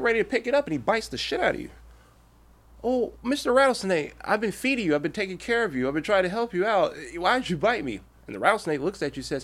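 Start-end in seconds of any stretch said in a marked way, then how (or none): 2.8-8.0 higher-pitched wounded appeal, easing down; lightly hammed-up plea to one who betrayed you; mock pleading. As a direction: play a mildly aggrieved victim. Victim pleads with snake in fable.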